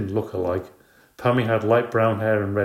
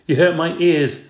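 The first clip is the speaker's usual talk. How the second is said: put-on whiny child; 7 semitones higher, 6 dB louder than usual. A narrator's reading.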